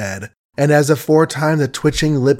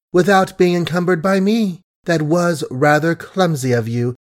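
honeyed voice hiding contempt; sweet as honey yet cutting; suave sweetness; 3 semitones higher than usual. Acted. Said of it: "Suave, gentle, sweet as honey was the speech".

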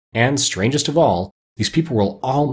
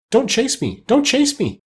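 high-pitched, frightened little cry; 13 semitones higher than usual. A narrator's reading. China princess fleeing from Dorothy, crying out in a frightened little voice. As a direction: plead in a small, scared voice, pitched way up. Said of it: "She had such a frightened little voice".

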